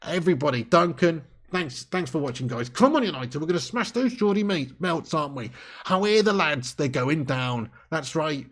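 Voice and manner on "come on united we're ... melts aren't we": attempted Geordie accent. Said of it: "Geordie accent".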